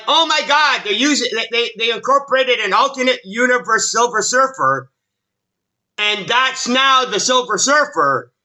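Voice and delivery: hammed-up imitation of a hysterical fanboy; mock fan outrage.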